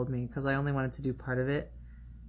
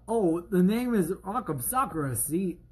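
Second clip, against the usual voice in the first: Christopher Walken. Pretend. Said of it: "Should I have just done a Christopher Walken?".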